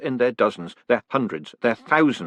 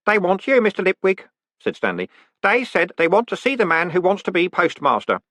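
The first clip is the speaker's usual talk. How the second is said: a nervous grin you can hear; uncertain boy; 9 semitones higher than usual. A narrator's reading. Stanley telling Moist about the men, uncertain boy voice.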